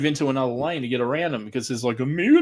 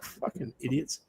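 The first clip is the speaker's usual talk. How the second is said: muttered insult; 11 dB quieter, slower than usual. Retold or imitated. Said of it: "I was like".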